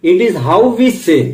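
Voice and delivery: drawn-out, deliberate reading; slow quote. Shown as a demonstration. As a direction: read it slowly to the trainees. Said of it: "quote read slowly". (धीमा, सोच-समझकर पढ़ा गया उद्धरण)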